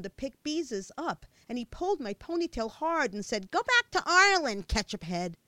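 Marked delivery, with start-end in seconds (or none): 3.5-5.4 loud, high sneer on back; bully's jeer. A narrator's reading. Fat boy sneering at Michelle while pulling her hair, loud jeer. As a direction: spit the insult at her.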